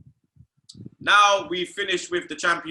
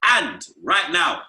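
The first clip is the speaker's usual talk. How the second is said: steady sponsor ad read; 3 dB louder than usual. Acted. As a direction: sell it like a host-read ad. Reads sponsor ad.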